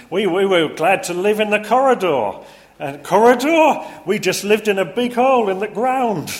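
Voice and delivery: high, loud one-upping Yorkshireman; Yorkshire accent. Retold or imitated. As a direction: outdo him in broad Yorkshire. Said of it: "Yorkshire accent in the different, uh, character voices".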